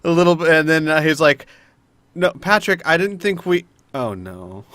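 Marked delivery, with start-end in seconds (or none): 2.1-4.6 lightly imitated voice, dropping on the last words; slightly raised voice, sinking into dismay; Mila's voice on Al. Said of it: "Mila's voice and touch it to Al".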